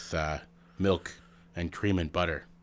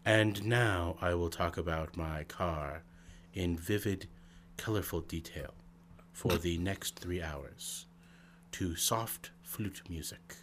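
low whispery radio voice; 8 dB quieter than usual. Pretend. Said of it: "talking like this with a low, whispery voice".

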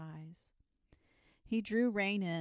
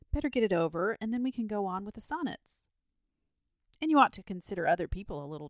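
insistent, louder pleading; imploring; 7 dB louder than usual. A narrator's reading. Boy urging the dragon to fight Saint George, imploringly. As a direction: press the plea with lively emphasis. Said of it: "said the boy imploringly".

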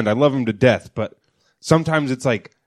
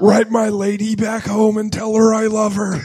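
dying words; 5 semitones higher than usual. Retold or imitated. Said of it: "dying in a war movie".

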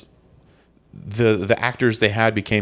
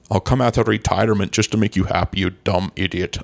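lightly slurred Scottish star, s turning to sh; comic impression with slushy s sounds; Sean Connery; 2 semitones lower than usual. Promising co-hosts a comeback, hammed-up Connery impression. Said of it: "And Mister Connery".

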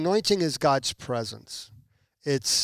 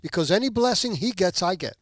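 eager agreement; 5 semitones higher than usual. Retold or imitated. Owner's eager reply continues.

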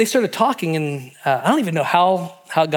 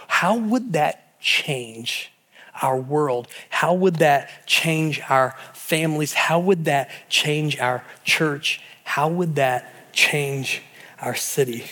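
slow rhetorical questions; slower than usual. Real, not acted. Slow rhetorical questions closing sermon.

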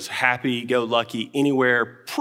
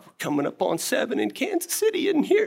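mock bravado; 12 semitones higher than usual. Dad bracing himself on the drive.

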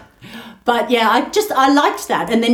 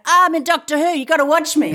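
imagined proud call home, pitched higher; excited actor phoning parents; 6 semitones higher than usual. Pretend. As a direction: play an actor bragging to mum and dad. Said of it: "he rang his mum and dad and went".

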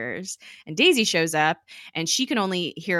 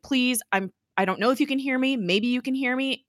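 retold plea, pitched higher; pleading; 7 semitones higher than usual. Fitz begging Ada in case she hears him, pleading. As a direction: plead lightly in a raised voice. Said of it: "pleading with Ada".

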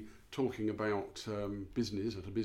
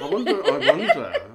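louder, higher, words through laughter; laughing; 10 semitones higher, 15 dB louder than usual. Real, not acted. Co-host laughing at the sleepy eyes story. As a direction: wonder aloud while cracking up.

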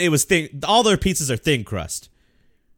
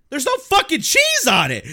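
roommate laughing; 13 semitones higher, 3 dB louder than usual. Retold or imitated. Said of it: "He goes".

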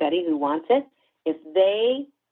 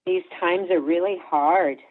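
slow, gentle acknowledgment; a calm, understanding parent; empathetic; slower than usual. Shown as a demonstration. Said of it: "I'm gonna try to be empathetic".

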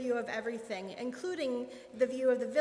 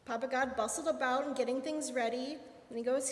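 plain reading voice

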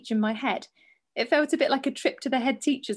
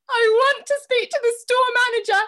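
loud demand; 11 semitones higher, 5 dB louder than usual. Retold or imitated. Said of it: "retold demand in the shop".

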